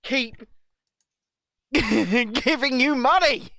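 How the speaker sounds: slow, mock-outraged drinker ranting at Red Bull. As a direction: hammer each word, building to a laugh. Mock rant as Red Bull funder.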